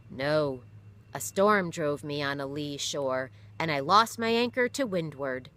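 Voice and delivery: steady and heavy, a captain remembering loss; father's voice. Acted. Father telling his children of the lost ship, grave and steady.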